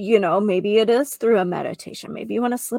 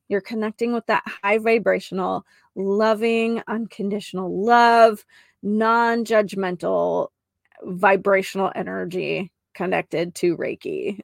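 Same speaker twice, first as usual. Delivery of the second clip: one long connected phrase, barely pausing between descriptors; wordy mouthful. Real, not acted. Healer piling up praise of Reiki energy, a mouthful. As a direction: run the adjectives together in one long string. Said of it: "that was a whole mouthful".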